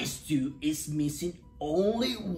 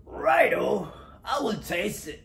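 louder, higher, ready reply; game agreement; 6 semitones higher, 6 dB louder than usual. A narrator's reading. Dingo agrees to taste the stew, game. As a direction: agree with a bit of bluster.

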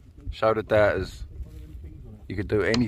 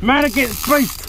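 epic declaration; 11 semitones higher, slower than usual. Real, not acted. Fighting the fish.

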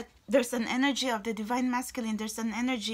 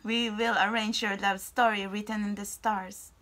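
voicing the Blessed Mother; 2 semitones lower than usual. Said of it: "the Blessed Mother is saying".

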